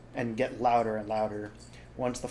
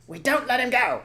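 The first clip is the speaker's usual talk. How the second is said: high, loud stubborn vow; loud high defiance; stubborn farmer; 12 semitones higher, 8 dB louder than usual. Acted. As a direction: refuse with stress on don't. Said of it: "said Bean".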